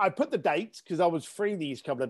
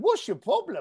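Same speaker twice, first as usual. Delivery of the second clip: put-on British accent, sarcastic, pitched higher; 5 semitones higher than usual. Recounting his reply to a man who turned around, retelling a British sarcastic line. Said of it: "I was being British sarcastic with my next line".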